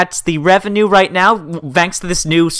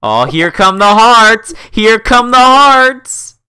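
slow, drawn-out rising cheer; excited announcement; 3 semitones higher, 5 dB louder, slower than usual. Real, not acted. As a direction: stretch the words, louder the second time. Cheering hearts flooding the chat.

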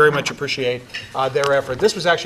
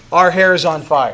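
laughing slogan. Acted. Jokey slogan pitched to the crowd.

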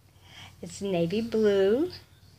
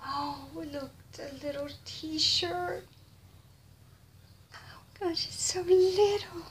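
cooing; 7 semitones higher than usual. Real, not acted. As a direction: melt at how little it is. Cooing over baby gifts.

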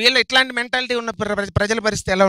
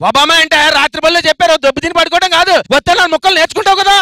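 shouting; 7 semitones higher, 8 dB louder than usual. Acted. Bossy shouting lecture.

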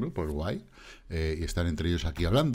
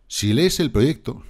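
mock quote; 5 semitones higher, 7 dB louder, slower than usual. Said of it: "Y dice, "Sí".

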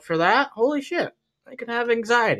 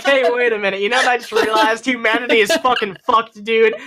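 mock dawning panic, a bit raised; dawning realization; 4 semitones higher than usual. Acting out humanity realizing it's fucked, mock alarm. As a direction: act out an alarmed sudden realization. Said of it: "that realization, like".

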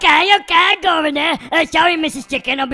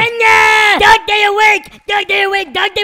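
hyper announcing; 3 semitones higher than usual. Acted. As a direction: announce waking up with too much energy. Dog character bursts awake.

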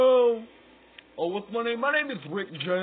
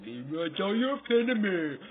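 Billy's voice; 4 semitones higher, 4 dB louder than usual. Retold or imitated. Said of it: "he says it".

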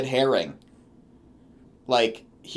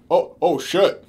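mock mutter; 2 semitones higher, 4 dB louder than usual. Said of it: "he muttered it as he began to groan".

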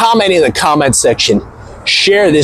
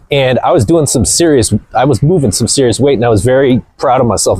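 ordinary delivery

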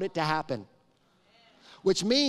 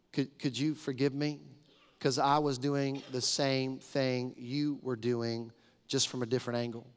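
gentle apology; 4 semitones lower, 4 dB quieter than usual. Retold or imitated. Asking daughter for forgiveness.

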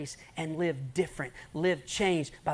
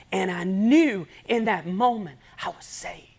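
slow, breathy hushed climax; whispered testimony; 3 semitones higher, 8 dB louder, slower than usual. Retold or imitated. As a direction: let the revelation fall to a whisper.

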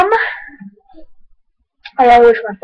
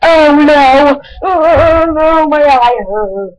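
mild alarm; 2 semitones higher, 4 dB louder, much slower than usual. Real, not acted. Eye hurting.

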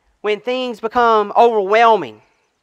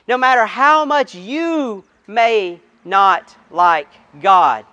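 tender assurance; slower than usual. Acted. Pastor assuring every doubter, slow and tender. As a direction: comfort them, slowly.

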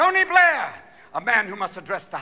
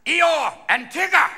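Churchill speech voice; 6 dB louder, slower than usual. Retold or imitated. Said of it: "a man from the B B C who also did Winnie the Pooh".

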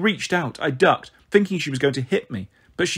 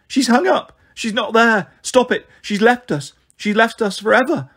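shouted; 7 semitones higher, 3 dB louder than usual. A narrator's reading. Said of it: "I shouted".

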